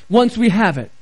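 "once we have it" set apart with emphasis; stress on "once we have it". Real, not acted. Pastor qualifies keeping salvation, emphasis on "once we have it". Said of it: "I emphasize the words".

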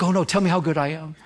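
mildly hammed-up pleading for praise; lightly imitated plea for attention; begging for attention. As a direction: fish for compliments, mock-needy. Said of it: "you're begging for attention".

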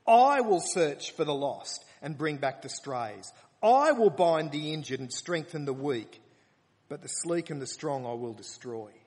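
loud, proclaiming scripture reading; preaching at full force. Acted. Preacher declaiming God's promise to the congregation, loud. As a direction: proclaim it like a solemn vow.

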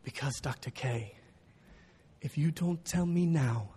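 put-on slow, low, weighty Ugandan-accented answer; young Ugandan accent. Student explaining why he must know now, Ugandan accent. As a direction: imitate a Ugandan student, earnest and deliberate, with pauses. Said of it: "I'm gonna have to do young Ugandan".

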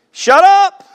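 high loud comic shout; hammed-up angry Moses yell; mock shout. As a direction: bark it out at the crowd. Moses voiced while reading.

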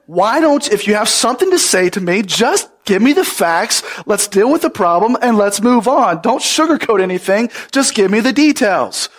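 impatient quote of his past self, pushing briskly through; mildly annoyed. Acted. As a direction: act out mild exasperation, wanting them to get to the point. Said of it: "I used to find this very annoying".

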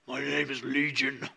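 soft, eerie voice of the demon Legion; a light hint of a creepy demon. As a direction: make it sound haunting and otherworldly. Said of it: "some really creepy voice".

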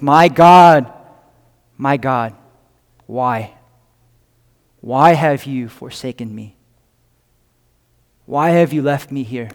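understated anguish, broken by long pauses; agony and pain. Retold or imitated. Preacher voicing Jesus forsaken on the cross, subdued agony. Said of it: "with a loud voice in agony and pain".

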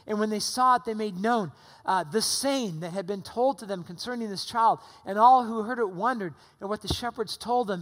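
measured Bible reading with stress on found; scripture reading. Acted. Pastor reading Luke to the church, measured scripture voice. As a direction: read the passage to the congregation, steady and deliberate. Reads the Scripture passage aloud.

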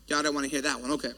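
low, soft mock-resigned aside; under-the-breath comment on a quiet crowd; muttered aside. Real, not acted. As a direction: drop right down as if talking to yourself. Aside on congregation's cool response.

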